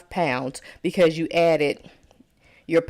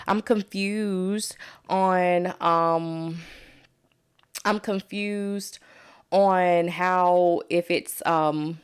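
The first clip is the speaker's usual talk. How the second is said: confused student; much slower than usual. Retold or imitated. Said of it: "And people say".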